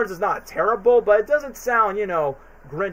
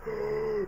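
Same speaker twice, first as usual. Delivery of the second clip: theatrical gasp; 9 dB quieter than usual. Retold or imitated. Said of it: "with my Carrey voice".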